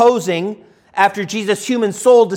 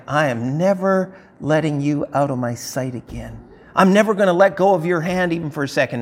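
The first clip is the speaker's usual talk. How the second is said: clinging Mary; 3 semitones lower than usual. Retold or imitated. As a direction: hold him close and never let go.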